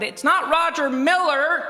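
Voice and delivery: retold shout. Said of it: "who sat on the front row and shouted".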